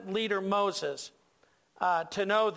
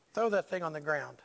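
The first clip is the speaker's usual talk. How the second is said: low, softer understated command; God; 5 semitones lower, 3 dB quieter than usual. Acted. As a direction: calmly give a low, quiet instruction. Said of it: "And then God said".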